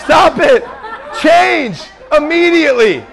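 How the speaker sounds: mock rebuke. Rebuking spirits, mock deliverance.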